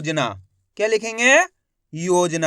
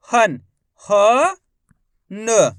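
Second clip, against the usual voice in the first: stretched spelling drill; syllable-by-syllable; 4 dB louder, much slower than usual. Shown as a demonstration. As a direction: separate syllables with pauses between. Teacher sounding out the syllables.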